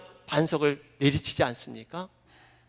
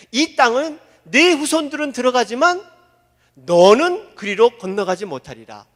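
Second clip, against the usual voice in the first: God's stern verdict; 5 dB louder than usual. Acted. Preacher voicing God's stern verdict to Moses. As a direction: pronounce it as God's judgment.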